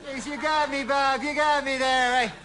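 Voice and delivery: high, put-on character voice; an exaggerated high comic voice with a laugh at the end; goofy put-on voice.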